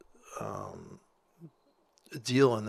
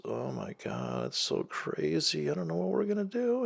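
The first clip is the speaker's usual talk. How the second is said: mock panic; 5 semitones higher than usual. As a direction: ham up a scared person. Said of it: "we've all just gotta be so scared".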